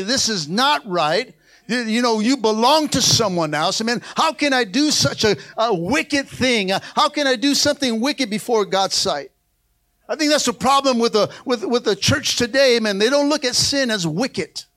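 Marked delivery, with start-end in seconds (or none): 0.0-9.3 resolute, unwavering no to sin; firm refusal. Shown as a demonstration. Preacher modelling a firm answer to a tempting wife, resolute. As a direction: shut it down plainly and firmly.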